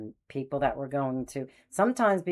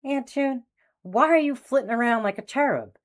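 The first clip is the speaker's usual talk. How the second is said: laughing; 9 semitones higher, 5 dB louder than usual. Retold or imitated. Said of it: "So I'm laughing".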